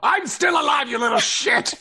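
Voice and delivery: mock-outraged protest. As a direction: shout back in playful outrage. Player protests being written off as dead.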